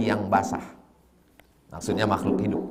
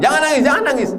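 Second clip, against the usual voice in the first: much higher, louder, shrill-free insistent plea; scolding mourner; 5 dB louder, much faster than usual. Retold or imitated. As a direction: hush a crying mourner. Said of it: "Pas anak Win melarang".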